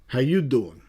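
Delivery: lightly put-on Philadelphia greeting; a hint of Philadelphia accent. Shown as a demonstration. Host greeting viewers for a Philadelphia band, light Philadelphia accent. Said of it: "That's my Philadelphia accent".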